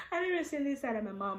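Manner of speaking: real laughter breaking through the words; laughing. Real, not acted. Telling viewers about her mom's outburst, laughing. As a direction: laugh it out in disbelief.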